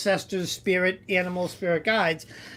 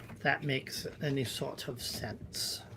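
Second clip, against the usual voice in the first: whispering; 5 semitones lower, 13 dB quieter than usual. Real, not acted. Trails off after reading.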